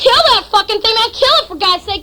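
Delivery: storyteller's half-scream, high and loud at the start; retold scream. Narrator egging on his friend to kill it, screaming. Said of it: "and I'm screaming".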